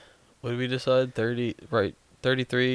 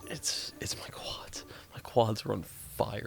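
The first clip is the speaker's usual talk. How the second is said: whispering; 5 dB quieter, slower than usual. Real, not acted. Exhausted runner speaks under breath.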